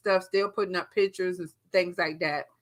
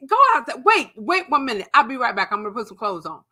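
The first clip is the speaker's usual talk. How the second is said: high urgent order; raised voice; 3 semitones higher, 5 dB louder, faster than usual. Retold or imitated. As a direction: send her out firmly. Husband orders ex outside.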